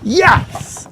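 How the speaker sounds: high, loud cries of joy, then gushing; hammed-up excitement. Host hyping the final records segment, gleeful and over the top. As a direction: overplay the thrill of reading records.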